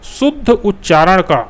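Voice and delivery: शुद्ध उच्चारण का said slowly with शुद्ध pressed; stress on शुद्ध. Shown as a demonstration. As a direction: lean on शुद्ध and draw it out. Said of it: "देखिए उच्चारण कैसे करना है?". (शुद्ध पर ज़ोर, धीरे-धीरे)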